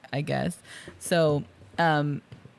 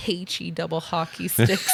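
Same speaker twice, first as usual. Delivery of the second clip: mock American accent; bad American accent. Mocking Hans's fake hostage act, bad American accent. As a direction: overdo a clumsy American accent. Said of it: "not a very good American accent at all".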